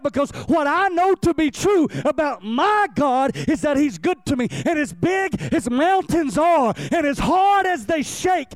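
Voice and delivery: rising, ringing preacher's cry; preaching at full force. Acted. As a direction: preach it out with fervor. Preaching build-up.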